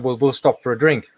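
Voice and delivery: ordinary talk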